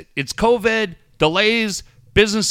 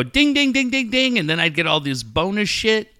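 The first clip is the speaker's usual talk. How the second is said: rapid run of spoken dings; quick repeated bell sounds; imitated slot-machine dings; 2 semitones higher than usual. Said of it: "and it would go".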